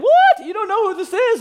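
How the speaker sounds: very high, loud squawk of disbelief; hammed-up offended shriek; mock outrage. Offended friend to the one who forgot them, mock outrage.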